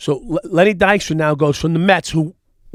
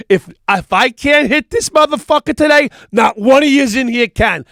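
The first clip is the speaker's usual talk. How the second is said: high, loud cocky boast to the team; hammed-up Dykstra daring his teammates; loud dugout boast; 9 semitones higher, 7 dB louder than usual. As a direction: player yelling to the dugout after striking out. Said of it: "says to the dugout".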